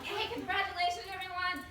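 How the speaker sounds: high, loud cheering on; acted congratulations. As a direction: congratulate the whole group with gusto. Congratulating the excited tour group.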